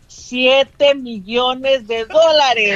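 very drawn-out, emphatic reveal; jubilant announcement. Real, not acted. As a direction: stretch every word out in triumph. Announces the lottery win.

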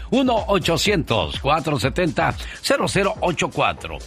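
upbeat ad read; infomercial. Acted. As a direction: sell it, read the number. Infomercial pitch with phone number.

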